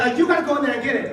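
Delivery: high, rapid, irritated order; mock fuming usher. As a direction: push the chore on a coworker. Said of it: "she is fuming".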